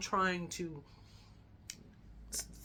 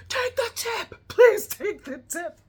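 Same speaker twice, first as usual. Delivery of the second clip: much higher, louder, slow insistent command; exasperated demand; 12 dB louder, slower than usual. Retold or imitated. Friend Janet ordering the driver to take the tip, loud exasperated shout. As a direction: bark it out to end the argument. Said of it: "whips her head around and she goes".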